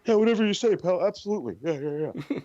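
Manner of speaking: high, mock-agreeable yeah; sarcastic brush-off. Voicing Kushida brushing off everyone, sarcastic. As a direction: humour them dismissively. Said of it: "listening to everybody like".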